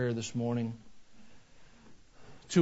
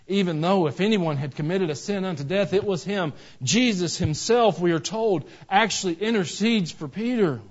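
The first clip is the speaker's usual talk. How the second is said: raised, emphatic sermon delivery; forceful preaching; 5 semitones higher, 6 dB louder than usual. Real, not acted. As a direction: drive the point home to the congregation.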